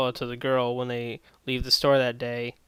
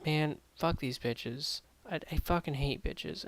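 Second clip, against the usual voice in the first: inner grumbling; 2 semitones higher, 7 dB quieter than usual. Retold or imitated. Nerd's inner thoughts.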